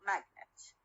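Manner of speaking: "magnet" stressed on MAG, falling after it; stress on first syllable. Shown as a demonstration. Teacher confirms first-syllable stress for students, MAG stressed in "magnet". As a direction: stress MAG, let -net drop in "magnet". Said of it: "الستريس على أول syllable".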